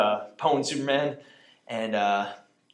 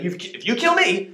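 Lex threatening; 9 semitones higher than usual. Retold or imitated. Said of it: "He's like".

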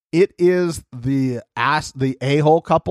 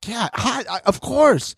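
mock sweet voice; 9 semitones higher than usual. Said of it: "I was like".

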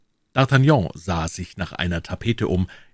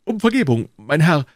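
much higher, polished courtier's voice; higher, gentle, dandyish soldier; refined musketeer; 10 semitones higher, 6 dB louder than usual. Acted. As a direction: Aramis boasting elegantly. Aramis pleads.

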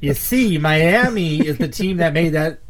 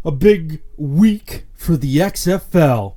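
news reporter voice; 4 dB louder, slower than usual. Acted. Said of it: "Rexton Tells All here".

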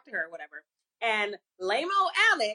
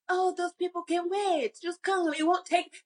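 put-on dismissive boyfriend; 7 semitones higher than usual.

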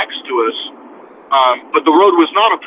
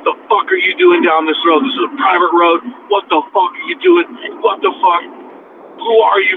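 half-voiced angry yelling; mock angry yell; 4 semitones higher than usual. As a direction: imitate an irate man demanding answers. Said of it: "this guy's yelling at me".

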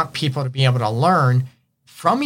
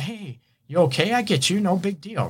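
gentle reassurance; 6 semitones higher than usual. Pretend. Reassuring a partner who isn't in the mood, gently. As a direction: soothe them like it's really fine.

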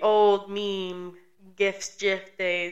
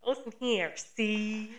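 mock New York gangster; 7 dB quieter than usual. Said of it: "trying to do it in a New York accent".

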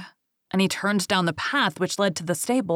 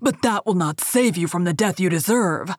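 angry cry; 3 dB louder than usual. Acted. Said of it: "he cried".

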